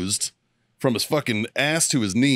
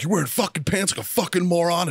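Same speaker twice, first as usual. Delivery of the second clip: mock chewing-out; 7 semitones higher than usual. Gunny ripping into a kid who fell out of a run, mock scolding. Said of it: "he's ripping into this kid".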